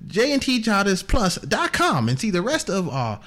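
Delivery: John Thomas Aloysius Booth. Acted. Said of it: "It's John Thomas Aloysius Booth here".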